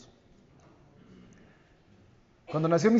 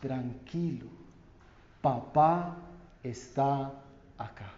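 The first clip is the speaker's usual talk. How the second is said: much softer, hushed, fading to almost nothing; tender reassurance; 4 semitones lower, 7 dB quieter, slower than usual. Retold or imitated. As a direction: whisper it like a father to his child. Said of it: "te diga estas palabras". (consuelo suave y tierno de padre, casi en susurro)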